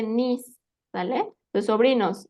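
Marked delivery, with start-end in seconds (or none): 0.0-0.6 niece drawn out as "nees"; pronunciation demo. Shown as a demonstration. Teacher giving the word for sobrina, niece said slowly. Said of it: "se dice".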